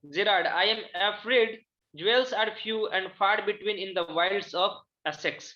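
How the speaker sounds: slow, deliberate reading aloud of a drama line; slow classroom reading of the play. Acted. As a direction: read each word out slowly for the class. Teacher reads the play aloud.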